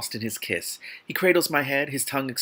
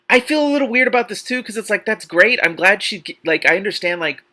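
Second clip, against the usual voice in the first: flustered aside; 10 semitones higher, 6 dB louder than usual. Real, not acted. Uneasy commentary on the scene.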